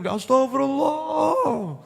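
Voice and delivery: hammed-up weeping worshipper; mock tearful istighfar. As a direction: let the voice crack as if weeping over sins. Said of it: "lebih banter dari imamnya".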